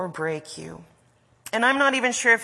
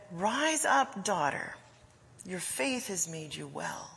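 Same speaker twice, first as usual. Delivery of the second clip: gentle lift, then softening; compassionate; 6 dB quieter than usual. Acted. Jesus telling a healed daughter to rise, compassionate. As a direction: tenderly raise her up, fading to soft assurance. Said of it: "God's voice of compassion".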